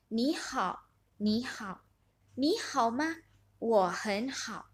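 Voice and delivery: two speakers greeting in turn, the reply slow and whispered; dialogue demo. Shown as a demonstration. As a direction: act out both sides of a greeting. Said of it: "saling bergantian ya, menjadi A dan B". (peragaan dialog A dan B)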